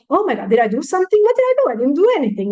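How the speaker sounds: quick fretting, pitch leaping on the question; mock worried self-blame. Shopper wondering about a snarky clerk, mock worry. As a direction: act out a little panic of self-doubt.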